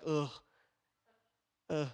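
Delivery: low, short "ugh" of distaste; mock groan of reluctance. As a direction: groan as if dreading it. Mimicking distaste at scripture.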